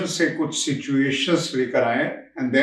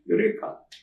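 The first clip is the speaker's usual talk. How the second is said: higher, lighter echo of a discovery cry; Archimedes; 8 semitones higher, 4 dB quieter than usual. Acted. Speaker jokes about his bathtub discovery, playful mock exclamation. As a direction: repeat the triumph playfully, pitched up. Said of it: "Archimedes की तरह".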